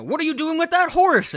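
high-pitched, loud mock outcry; imitated frantic high shout; imitating Tom Green. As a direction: yell it high, as if running up. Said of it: "when Tom Green runs up".

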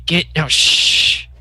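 hushing whisper. Acted. Hushing Rufio while hiding.

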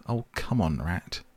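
a touch of impatience; impatient. Acted. Mole nags the digging rat, mildly impatient. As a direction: hurry him along. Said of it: "waited impatiently".

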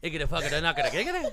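rapid-fire gibberish; made-up language. Pretend. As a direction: rattle it off like a fluent nonsense tongue. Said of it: "we've got our own language".

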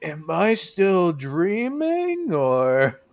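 high, slow confused wonder; dazed high voice. Acted. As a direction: drawl it out like still half asleep. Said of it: "and he's like".

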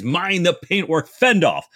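angry officer thundering at the boat; thundering bellow. A narrator's reading. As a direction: bellow it down from the deck. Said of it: "a thundering voice".

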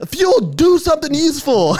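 high mock yell from the crowd; retold heckling yell. Spectator testing if the fan repeats him, yelling. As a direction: heckle the wrestler loudly. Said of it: "when I was yelling".

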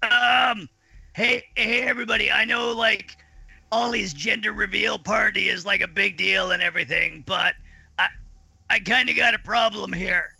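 urgent call to everyone. Retold or imitated. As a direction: call out to the party, half panicking. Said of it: "and I was like".

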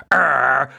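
lightly imitated monster growl; mock grimacing "arr"; Smokescreen's Frankenstein growl. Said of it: "it's Frankenstein".

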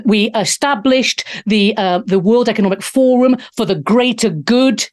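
a hammed-up villain speech, deliberate; a poor mock German accent, barely changed; dodgy Klaus Schwab impression. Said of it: "definitely did a very, very dodgy".

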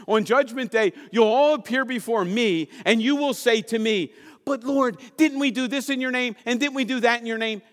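1 Jesus proclaiming. Acted. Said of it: "he says this".

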